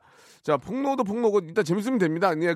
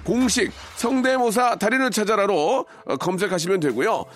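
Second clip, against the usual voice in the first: energetic radio promo over music; announcer-style plug; promo read; 3 semitones higher than usual. Acted. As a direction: sell the show's new channel, punching key words.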